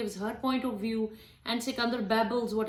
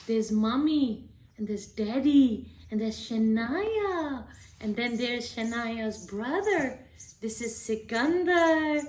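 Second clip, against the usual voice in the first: put-on slow, drawn-out baby talk; name each picture slowly for a little one; mother showing her daughter the family in a picture book in baby voice; slower than usual. Shown as a demonstration. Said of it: "talk to your babies in baby voice".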